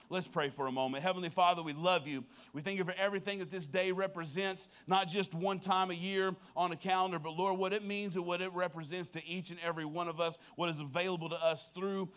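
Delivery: prayer. Real, not acted. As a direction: lead the room in a hushed, heartfelt prayer.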